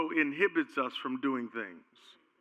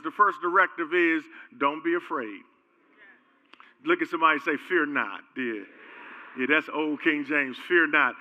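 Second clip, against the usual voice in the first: calm sermon. Acted. Pastor teaching the congregation, calm sermon delivery. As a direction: lay out the promises steadily.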